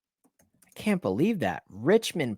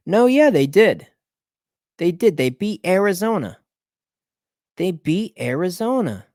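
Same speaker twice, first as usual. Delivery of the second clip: surprised realization; 6 semitones higher, 4 dB louder than usual. Real, not acted. Discovering a result.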